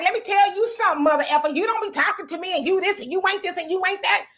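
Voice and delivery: mock angry rant. Someone lashing out at a speaker, fast heated rant. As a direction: rattle off a fast, heated tirade. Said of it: "But if I'm like".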